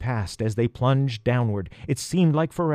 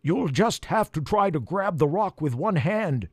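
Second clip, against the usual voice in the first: high crow voice, urgent; urgent instructions from a crow; 6 semitones higher than usual. Acted. Jackson the crow speaks.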